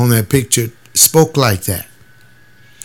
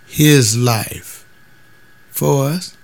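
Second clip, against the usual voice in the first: slow, puzzled question; a church member asking slowly, confused; puzzled questioner; 2 semitones higher, much slower than usual. Retold or imitated. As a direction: spell it out slowly, baffled. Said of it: "you ask one of them church members".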